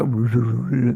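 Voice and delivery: garbled wordless mumble of a disguised voice; rolling nonsense burble; blurry-voice imitation. Shown as a demonstration. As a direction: imitate an anonymized voice with blurred babble. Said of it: "I can do the blurry voices".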